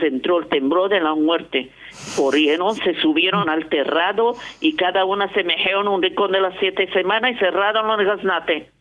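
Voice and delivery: reading a folk tale aloud, lightly acted; story narration. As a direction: tell the grandfather's story at an even storyteller's pace. Reads a Haketia story aloud.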